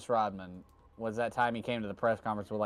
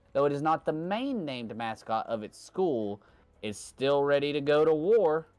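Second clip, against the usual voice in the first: quiz hint read; 3 semitones higher than usual. Acted. Reading a trivia clue to his cohost, dramatic. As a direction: read the clue like a game show host.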